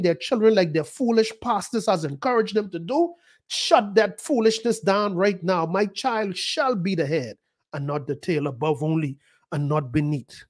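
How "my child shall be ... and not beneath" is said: put-on steady, deliberate proclamation over a child; bold declaration. Shown as a demonstration. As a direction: speak it over your child like a decree. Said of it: "That's how you talk".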